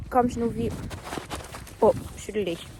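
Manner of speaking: high, loud cooing at the dog; sing-song coaxing the puppy; baby talk. Acted. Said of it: "Ich spreche mit ihm immer in Babysprache".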